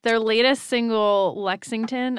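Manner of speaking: punchy announcer delivery; radio DJ voice. Pretend. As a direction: hype it up like a radio DJ. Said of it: "I sound like a radio D J now".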